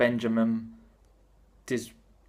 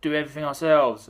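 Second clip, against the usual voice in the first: communist bravado; 4 semitones higher than usual. Retold or imitated. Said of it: "they were like".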